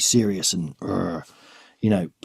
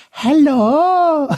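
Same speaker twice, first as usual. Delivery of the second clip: high, loud mock posh British hello; mum's British accent; 6 dB louder than usual. Son imitating his mum's British accent for guests. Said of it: "trying to do an accent".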